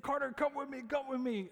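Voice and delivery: high, urgent plea; panicked neighbor. Retold or imitated. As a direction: retell the scared neighbor's urgent call. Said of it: "And he said".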